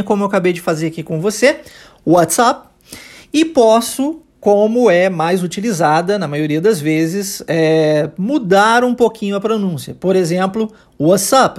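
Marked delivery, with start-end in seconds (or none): 2.1-2.7 "WhatsApp" with the T-S fully sounded; careful full pronunciation. Shown as a demonstration. Teacher showing the tidy form of the question, careful full pronunciation. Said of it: "de forma bonitinha". 11.0-11.6 "what's up" said as "wassup"; T dropped into S. Shown as a demonstration. Teacher giving an example of the changed pronunciation, T dropped. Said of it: "Eu transformo esse S".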